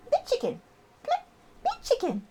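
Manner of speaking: very high, excitable pet talk; high-pitched coaxing. Real, not acted. Owner coaxing her bird to perform, very high-pitched. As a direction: pitch it way up to get the bird going. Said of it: "the higher pitched my voice goes".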